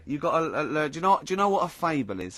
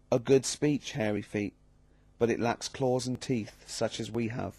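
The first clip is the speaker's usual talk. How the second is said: slow, deliberate storybook reading; measured reading of an old fable; slower than usual. Acted. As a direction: read the fable slowly and clearly. Reads a fable aloud.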